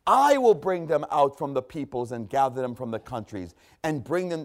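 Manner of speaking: solemn, measured scripture reading. Acted. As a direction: read God's words with weight. Reads scripture in sermon.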